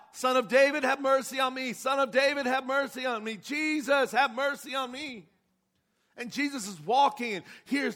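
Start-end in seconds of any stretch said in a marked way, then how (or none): 0.1-5.2 loud, high desperate plea; crying out for mercy. Retold or imitated. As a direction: beg loudly for mercy. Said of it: "he began to cry out".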